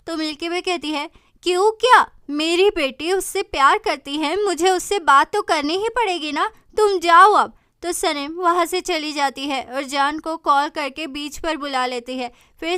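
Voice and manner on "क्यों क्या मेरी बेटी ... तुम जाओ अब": snapping mother. Acted. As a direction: cut her off sharply and loud. Mother snaps at daughter. (माँ की ऊँची गुस्से भरी झिड़की)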